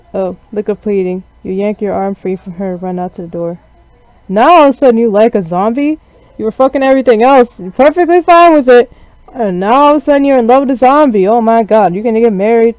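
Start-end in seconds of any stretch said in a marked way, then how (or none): 4.3-12.7 jealous outburst. Acted. Character's jealous outburst at player.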